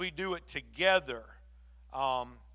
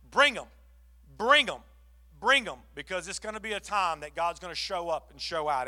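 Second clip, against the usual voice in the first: louder punched "bring 'em"; forceful appeal; 4 dB louder than usual. Real, not acted. Pastor urging the church, loud repeated call. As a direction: urge the congregation to bring people.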